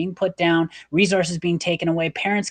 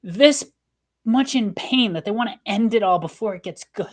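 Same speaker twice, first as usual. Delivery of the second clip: real held-back tears, slightly raised pitch; holding back tears; 3 semitones higher than usual. Real, not acted. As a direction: fight tears while speaking earnestly. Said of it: "I'm, like, holding back tears".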